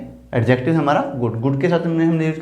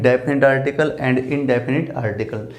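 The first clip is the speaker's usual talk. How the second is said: slow dictation; 2 semitones lower, much slower than usual. Shown as a demonstration. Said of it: "उनको two parts में divide".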